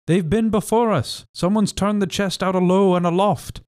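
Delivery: high, rough pirate voice; a sailor calling down in dismay; pirate crying out. A narrator's reading. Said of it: "he cried".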